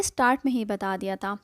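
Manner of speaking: quick whisper to the viewers; whispered aside. Real, not acted. Teacher whispers a quick aside to viewers. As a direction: whisper it fast, like a secret.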